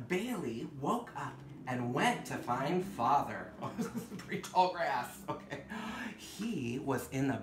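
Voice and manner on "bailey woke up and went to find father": story reading. Acted. Reads picture book aloud.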